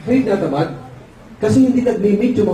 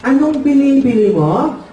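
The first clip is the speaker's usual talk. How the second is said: higher, slow impeded voice; imitated speech defect, pitched up; speech-impaired father; 4 semitones higher than usual. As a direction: put on a puzzled dad's muffled consonants. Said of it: "Sabi ng tatay".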